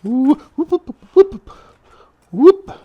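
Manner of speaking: high, loud excited whoop. Real, not acted. Cook celebrating the corn with a loud excited whoop. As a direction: whoop it up with joy.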